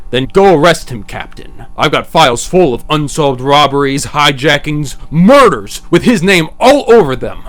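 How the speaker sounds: angry prosecutor making his case; heated argument. Acted. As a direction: slam the list of crimes at him. DA arguing with police.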